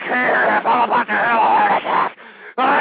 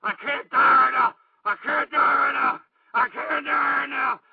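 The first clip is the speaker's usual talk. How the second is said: rising into a slow shout; building to a shout. Acted. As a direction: build from pleading to yelling. Host building to panic.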